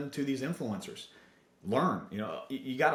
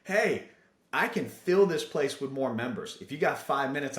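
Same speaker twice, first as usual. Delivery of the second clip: raised voice calling out, mildly; retold yell; 3 semitones higher, 4 dB louder than usual. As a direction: call out to a gym owner across the room. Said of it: "I just basically yell out".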